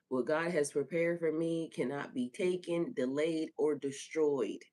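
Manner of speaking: firm, slightly lifted affirmation; whole-chested declaration. Shown as a demonstration. Host urging listeners to declare God's promise, whole-chested. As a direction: affirm it with conviction, slowing on "or destroyed". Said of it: "Say it with your whole chest".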